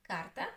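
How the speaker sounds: "Карта" stressed on кар; stress on first syllable. Shown as a demonstration. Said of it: "the first syllable is stressed".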